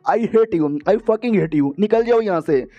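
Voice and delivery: lightly acted furious dismissal; mildly acted anger. Girlfriend throws boyfriend out after breakup, mildly acted anger.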